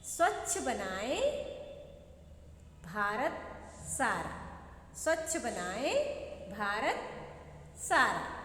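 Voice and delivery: rhythmic poem chant; teacher reciting the class poem; poem recital. Shown as a demonstration. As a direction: recite the poem line in a sing-song beat. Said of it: "कौन सी कविता पढ़ी?".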